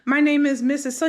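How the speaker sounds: airy, breezy hello, covering nerves; playing it off. Teacher pretending not to know her student, breezily. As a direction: act like nothing is wrong. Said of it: "she tried to play it off".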